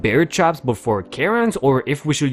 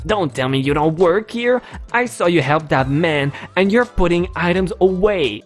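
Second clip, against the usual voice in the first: mildly indignant, slightly raised voice; accusing crazy lady; 5 semitones higher than usual. Acted. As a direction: lightly play a scolding entitled customer.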